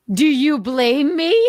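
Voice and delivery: teary. Real, not acted. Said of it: "I get a little fucking misty-eyed".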